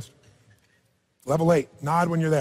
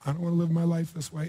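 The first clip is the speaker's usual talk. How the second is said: softer, sinking echo of her line; mimicking her despair; 2 semitones lower, 7 dB quieter than usual. Coach echoing the woman's despairing line to the audience, softer and sinking. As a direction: hand her words back to the room, deflated. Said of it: "Is there a tone of voice here".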